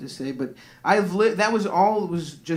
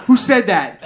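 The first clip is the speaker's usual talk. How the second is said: loud, indignant mock dad; angry dad; 4 semitones higher, 11 dB louder than usual. Comic imitates his furious dad at the table, loud and indignant. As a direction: bark it like an outraged Greek dad. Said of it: "my dad was so fucking mad".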